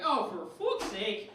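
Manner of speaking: exasperated Irish dad. Acted. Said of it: "my angry Irish father".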